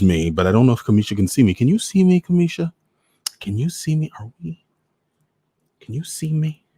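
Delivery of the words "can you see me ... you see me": much higher, lifted questioning call; calling out to check. Real, not acted. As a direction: call out to a viewer who may not see you. Checking if viewer sees him.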